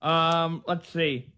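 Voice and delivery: talking around a pen; mumbled with a pen between teeth; pen in mouth. Real, not acted. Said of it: "Sorry, I got my pen in my mouth".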